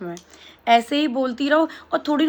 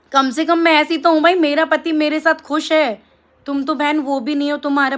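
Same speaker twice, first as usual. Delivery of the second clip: defiant retort; 2 semitones higher than usual. Real, not acted. Retort to hater.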